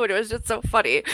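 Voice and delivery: normal talking voice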